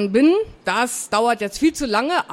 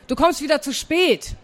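aunt's higher-pitched call; calling from outside; 5 semitones higher than usual. Acted. Aunt hurries her dawdling niece from outside, calling. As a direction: call out a mild reproach. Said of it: "rief Tante Siggi draußen".

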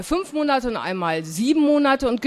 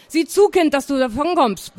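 higher-pitched, grumbling send-off; grumbled order; 5 semitones higher, 3 dB louder than usual. Acted. Aunt sends her niece off to school, grumbling. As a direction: shoo the child away with a grumble. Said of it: "brummte Tante Sigi".

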